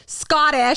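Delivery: emphatic, high attempt at "Scottish"; careful retry. Shown as a demonstration. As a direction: push out "Scottish" with deliberate effort. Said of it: "why can't I fucking say this word".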